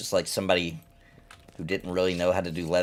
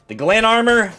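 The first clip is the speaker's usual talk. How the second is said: high excited shriek; shrieking jackpot winner; 12 semitones higher, 8 dB louder than usual. Real, not acted. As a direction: squeal the name out. Reacting to loot.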